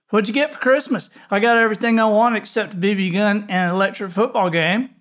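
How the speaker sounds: put-on fast, high, eager child voice; excited kid. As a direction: rattle it off excitedly. Excited kid comparing presents.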